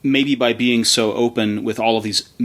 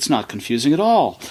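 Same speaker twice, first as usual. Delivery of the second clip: dry, sarcastic delivery; 3 semitones higher than usual. Confirming the earlier remark about confusing packaging: sarcastic. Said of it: "I'm being sarcastic".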